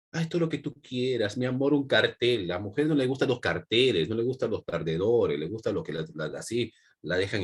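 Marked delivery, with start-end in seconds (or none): 0.1-2.5 lightly simpering lover; mock devoted suitor. Teacher imitates a pushover pleasing a woman, lightly mock devotion. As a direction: lightly imitate a fawning boyfriend. Mimics over-devoted beta male.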